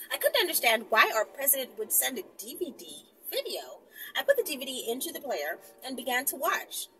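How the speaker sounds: measured storytelling read; story reading. Acted. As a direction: read the tale to the viewers. Reads story aloud.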